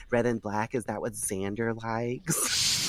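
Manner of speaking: slow, mocking question; sarcastic. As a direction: drag it out with sarcasm. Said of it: "she's sarcastic".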